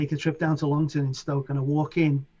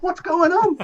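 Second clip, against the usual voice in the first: high, louder laughing question; laughing disbelief; 6 dB louder than usual. Retold or imitated. Remembering the beatless record in the club, laughing in disbelief. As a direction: laugh through it in amazement. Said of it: "I'm like".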